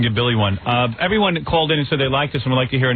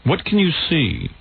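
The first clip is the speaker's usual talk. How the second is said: Peter Jennings; 4 semitones higher than usual. Acted. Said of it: "me as Peter Jennings".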